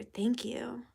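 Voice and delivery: whisper. Real, not acted. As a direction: whisper it gratefully. Whispered thanks.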